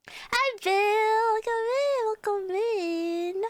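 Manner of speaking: high welcome, stretched at the end; high, eager greeting; chirpy greeting. Real, not acted. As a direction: sing out hello to the newcomer. Greets a viewer arriving in chat.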